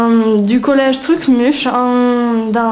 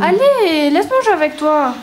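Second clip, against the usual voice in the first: put-on pleading little girl; 5 semitones higher than usual. Begging to join the game.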